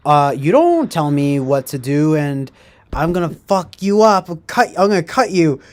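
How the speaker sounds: jokey put-on fury, jokingly; mock threat. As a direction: fake menace at a troll in chat. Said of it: "I'm just kidding".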